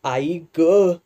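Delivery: loud sudden cry of pain; startled cry. Acted. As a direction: yelp as the foot gets pricked. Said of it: "किंचाळून सुंदरने".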